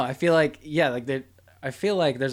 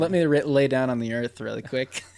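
hippie voice; 4 semitones lower than usual. Retold or imitated. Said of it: "You sound like a hippie".

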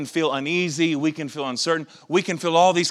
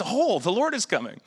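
mock excited; 7 semitones higher than usual. Preacher mocking TV preachers' end-times glee, mock excited. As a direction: imitate a thrilled TV preacher. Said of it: "they're very excited".

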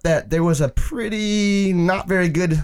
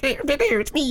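high mock Hispanic accent; hammy high-voiced fake Hispanic accent; bad Hispanic accent; 10 semitones higher, 3 dB quieter than usual. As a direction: imitate a badly done Hispanic accent, pitched up. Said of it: "like, the Hispanic accent".

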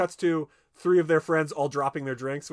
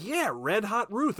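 slow leering reminisce; 7 semitones higher, slower than usual. Retold or imitated. Old classmate recalls a fling.

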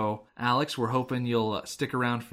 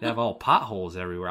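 quicker mock Jersey shakedown; put-on New Jersey accent; 2 semitones lower, faster than usual. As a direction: rattle it off like a New Jersey heavy. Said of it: "giving this Australian character a Jersey accent".

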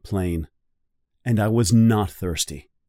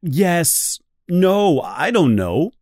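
louder and higher, blurting in frustration; flustered shout; 7 semitones higher, 4 dB louder, slower than usual. A narrator's reading. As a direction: snap back, cornered and irritated. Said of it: "I shouted".

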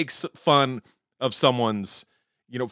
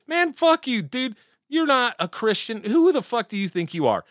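mock outrage; 11 semitones higher than usual. Trump's base rejecting him, mock angry yell. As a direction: tell him off, pitched way up. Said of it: "his base should have been like".

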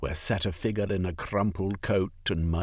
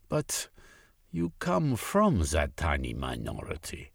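whisper; 3 semitones lower than usual. Acted. Marx interrupts.

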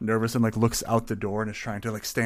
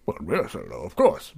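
nervous barkeep; 4 dB louder than usual. Acted.

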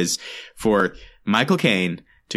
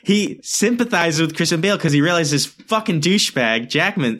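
real annoyance; 5 semitones higher than usual. Real, not acted. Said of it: "sorry, I'm really mad".

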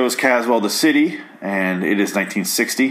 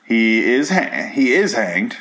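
voice cracking; slower than usual. Real, not acted. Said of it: "My voice cracked".

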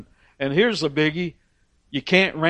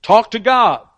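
higher, louder pleading to Moses; pleading people; 5 semitones higher, 3 dB louder than usual. Retold or imitated. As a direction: beg Moses as the frightened crowd. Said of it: "then they're going to Moses and going".

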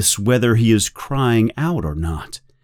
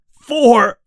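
pained Winston; 12 semitones higher, 4 dB louder than usual. Acted. Winston answering under torture.

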